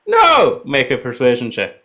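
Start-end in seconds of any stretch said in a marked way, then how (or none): 0.1-0.6 high-pitched defiant cry in character; defiant refusal. Acted. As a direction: refuse outright, pitch leaping up. Beast refuses to let go.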